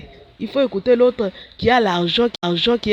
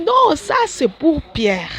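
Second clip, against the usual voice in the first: mock refusal; 5 semitones higher, slower than usual. Nun retells refusing God.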